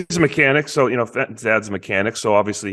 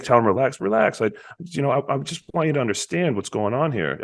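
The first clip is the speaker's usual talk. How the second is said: placating; 4 semitones higher than usual. Retold or imitated. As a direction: imitate a dad calming his son down. Retold father soothing his son.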